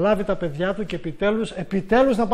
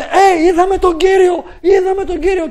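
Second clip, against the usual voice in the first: much higher and louder, slow ecstatic cry; joyful shout; 11 semitones higher, 11 dB louder than usual. Retold or imitated. Disciples shouting the news to everyone, ecstatic yell. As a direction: call it out like running into town with news. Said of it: "Αρχίσαν και φωνάζανε".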